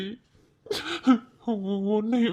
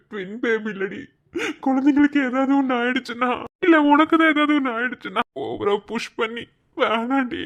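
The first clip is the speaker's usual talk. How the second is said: crying plea; 2 semitones higher, 3 dB louder than usual. Acted. Husband begs for operation, crying.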